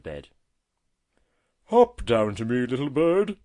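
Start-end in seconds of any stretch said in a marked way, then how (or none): 1.7-3.4 loud friendly call, lifting at the end. A narrator's reading. Tortoise inviting the robin down, friendly call. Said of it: "in a quite friendly voice".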